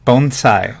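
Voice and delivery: bonsai said like a gringo; American accent Spanish. Shown as a demonstration. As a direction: Anglo pronunciation of Bonsai. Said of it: "I pronounce it like a gringo".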